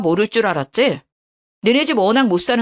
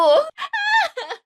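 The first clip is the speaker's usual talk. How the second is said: high crying shout falling off; a dragged-out wail; screaming wife dragged out. Acted.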